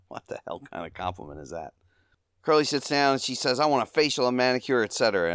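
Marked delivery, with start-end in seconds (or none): 3.6-5.3 high, loud mock New York accent; put-on thick New York accent, pitched up. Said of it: "in her thick New York accent".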